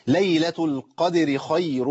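slow chant, "خير" ending in a long nasal hum; held ghunna. Shown as a demonstration. Teacher demonstrating ghunna, "خير" chanted with nasal hold. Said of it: "لابد من بيان الغنة".

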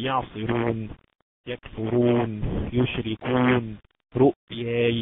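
slow demo of يعصرون and يشركون with heavy R before "u". Shown as a demonstration. Teacher giving examples of ra with damma, heavy ra. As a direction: draw out يكفرون, keeping the ر full and thick. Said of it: "المضمومة".

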